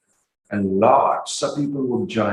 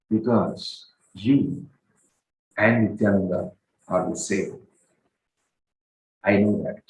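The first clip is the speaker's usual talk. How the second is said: very firm; 3 semitones lower than usual. Acted. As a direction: state it firmly, word by word. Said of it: "said this very firmly".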